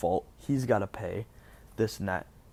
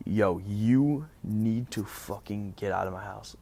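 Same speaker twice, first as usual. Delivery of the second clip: slow, fierce eviction demand, lightly acted; retold fierce order; 3 dB louder than usual. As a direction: act out a fierce, drawn-out telling-off. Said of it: "in the fiercest tone ever".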